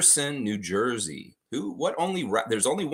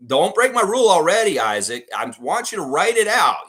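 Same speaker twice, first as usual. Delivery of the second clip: playful scold; 5 semitones higher, 8 dB louder than usual. Real, not acted. Scolding chat member about rules.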